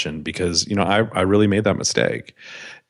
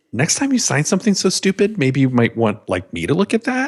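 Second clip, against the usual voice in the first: mock scolding attorney; 7 semitones higher than usual.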